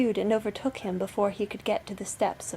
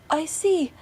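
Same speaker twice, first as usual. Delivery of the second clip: high, raised lookout voice; sister on lookout; 7 semitones higher, 6 dB louder than usual. A narrator's reading. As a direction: report down from the tower. Sister calls from the tower.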